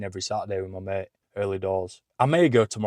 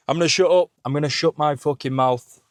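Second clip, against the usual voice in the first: loud, higher self-scolding; hyped shout; 5 semitones higher, 8 dB louder than usual. Real, not acted. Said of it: "hyped self-telling-off".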